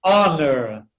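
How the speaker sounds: "Honor" starting straight on the vowel; silent H. Shown as a demonstration. Teacher giving another exception, "Honor" without H. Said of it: "você não pronuncia o H".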